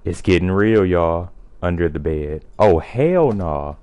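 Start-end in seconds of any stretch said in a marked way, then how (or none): 2.6-3.8 slow louder disbelief. Real, not acted. Finding something under bed.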